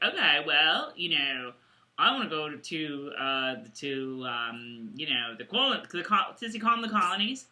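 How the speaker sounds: low, soft attempt at an accent; halting, muddled Irish accent, low; Horrocks. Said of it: "What accent does Hot Rocks have now?".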